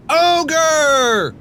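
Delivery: loud, high cackling witch yell. A narrator's reading. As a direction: screech the alarm. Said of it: "yelled one of the witches".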